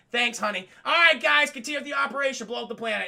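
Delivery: loud cheerful command; loud smug order. Retold or imitated. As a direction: order it loudly. Tarkin orders destruction.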